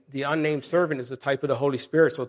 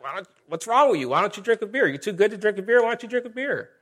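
higher-pitched, badgering retold questions; mock annoyed; 6 semitones higher, faster than usual. Imitating in-laws mad at a Pepsi drinker, high-pitched nagging. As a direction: pester with rising pitch, imitating offended drinkers. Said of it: "And they would get mad".

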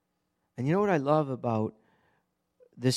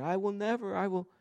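Peter's bold boast; 8 semitones higher than usual. Acted. Peter's boast voiced in a sermon.

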